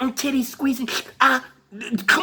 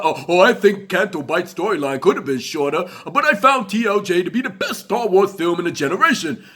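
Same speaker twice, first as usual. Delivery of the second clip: mock fan voice. Mocking other fans' opinions.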